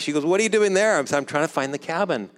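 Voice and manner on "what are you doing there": higher and louder, amazed; surprised question. Retold or imitated. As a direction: ask like you can't believe it. Carol asks, surprised.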